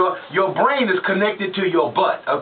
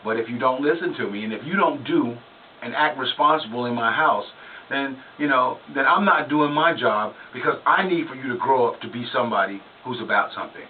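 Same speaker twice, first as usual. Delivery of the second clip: tearful dad apology; 5 semitones lower than usual. Retold or imitated. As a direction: say sorry with red eyes on the bed. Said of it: "And he would say".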